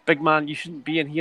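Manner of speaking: lightly put-on Geordie bouncer; a hint of a Geordie doorman warning him off; bad Geordie accent. Bouncer turning Carroll away at the Newcastle club, mild Geordie accent. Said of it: "sorry for the bad Geordie accent".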